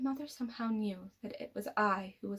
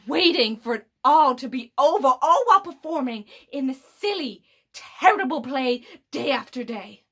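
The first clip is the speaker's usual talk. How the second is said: louder, impassioned contempt; scornful tirade; 2 semitones higher, 6 dB louder than usual. Acted. Villain condemning the silly play of life, scornful. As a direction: push it out with mounting disgust. Tirade against the human world.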